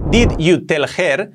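slow "Did you tell her", each word apart. Shown as a demonstration. Teacher starting word by word, slow and separated. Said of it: "Primero, palabra por palabra".

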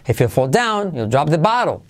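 "down" and "bottle" punched in a rhythmic line; swinging intonation peaking on "down" and "bottle"; stress on down, bottle. Shown as a demonstration. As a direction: hit "down" and "bottle". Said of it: "So, down and bottle".

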